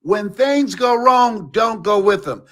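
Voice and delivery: "things" drawn out slowly; slow deliberate repeat. Shown as a demonstration.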